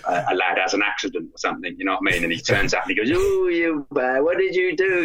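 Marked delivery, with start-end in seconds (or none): 3.1-5.0 high, put-on British accent, scolding; mock-British shame wizard tutting at a lad. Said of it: "he's got a great British accent".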